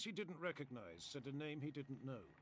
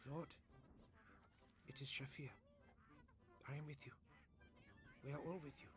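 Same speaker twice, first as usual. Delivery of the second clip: far gentler; 7 dB quieter, faster than usual. A narrator's reading. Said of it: "This new voice was far gentler".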